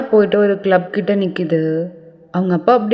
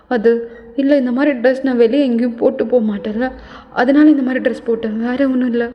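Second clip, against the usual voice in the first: put-on nervous girl's excuse; 3 semitones higher than usual. Caught sneaking in at midnight, she stammers a nervous excuse.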